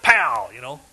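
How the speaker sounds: ordinary talk, nothing marked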